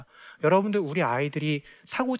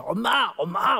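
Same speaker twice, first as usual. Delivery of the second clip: imitating a child calling Mom over and over; high, insistent mock child's call; bambino che chiama; 7 semitones higher, 4 dB louder, slower than usual. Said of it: "엄마를 자꾸 부릅니다".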